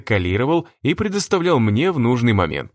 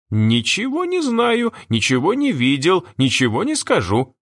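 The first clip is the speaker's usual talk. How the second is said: put-on squeaky childish voice; 7 semitones higher than usual. A narrator's reading. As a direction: pout like a capricious kid. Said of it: "писклявым голосом, словно капризный ребёнок".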